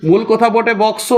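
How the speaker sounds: বক্স said slowly and clearly; careful demo. Shown as a demonstration. Teacher stressing the correct word বক্স. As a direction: spell out বক্স deliberately. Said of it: "বক্স না বলে বস্কো".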